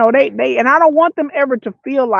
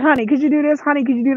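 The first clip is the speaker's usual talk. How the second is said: soft, sweet asking; soft mom voice; 3 semitones higher, faster than usual. Shown as a demonstration. Mother asking her son softly. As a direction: ask gently. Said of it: "I call him honey".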